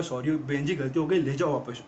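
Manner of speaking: low-pitched, subdued surrender; mock meek apology. Yamraj apologizes to Sati and gives back her husband, mock meek.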